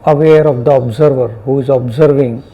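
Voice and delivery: unhurried meditation guidance with long pauses; guided meditation. Real, not acted. Teacher guiding students to notice sounds and body sensations, guided meditation. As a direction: guide them gently, phrase by phrase, leaving silences.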